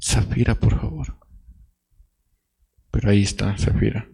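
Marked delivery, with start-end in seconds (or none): 0.0-1.2 begging her not to lie, gently; pleading. Retold or imitated.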